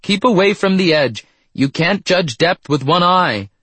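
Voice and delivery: high, worried calling out; high-pitched, anxious scolding; concerned cry. A narrator's reading. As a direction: call a fretful warning up to him. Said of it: "with a concerned expression".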